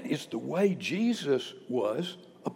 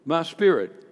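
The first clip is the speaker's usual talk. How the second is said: mildly raised, firm calling out; retold loud prayer, moderately projected; 4 dB louder than usual. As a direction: call it out firmly, with a pause before the end. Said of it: "called out with a loud voice".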